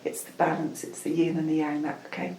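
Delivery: measured spiritual message in short, repeated phrases; unhurried ritual guidance with pauses; channelled guidance. Acted. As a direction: counsel them like a meditation guide.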